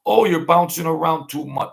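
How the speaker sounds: high, loud mock whine of a hater. Mimicking a hater who complains about his bouncing around. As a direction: sneer it like a know-it-all critic. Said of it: "you get haters".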